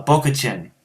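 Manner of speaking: Chinese word in an American accent. Shown as a demonstration. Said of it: "I have just such an American accent".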